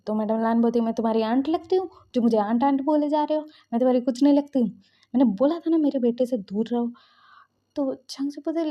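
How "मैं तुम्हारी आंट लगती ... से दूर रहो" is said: retold rich mother's angry scolding, louder; Madam Lan snaps at Jung Jung angrily. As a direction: scold her sharply, mock-stern. Mother-in-law scolds pregnant girl.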